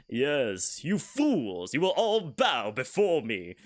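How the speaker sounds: slow, menacing villain proclamation; a lightly voiced evil villain, drawn out. Shown as a demonstration. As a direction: sneer it slowly like a gloating overlord. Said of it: "That is the evil voice".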